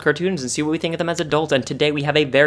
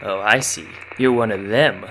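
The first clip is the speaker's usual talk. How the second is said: paranoid hermit voice; 3 semitones lower than usual. Acted. Hermit suspects moon people.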